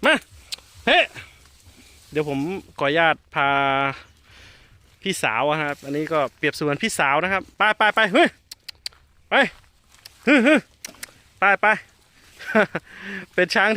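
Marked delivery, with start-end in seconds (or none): 0.1-1.0 high, loud command call. Real, not acted. Mahout commanding elephant to come, loud call. 7.9-11.7 high, loud shout; shooing shout. Real, not acted. Mahout shooing elephant away, loud shout.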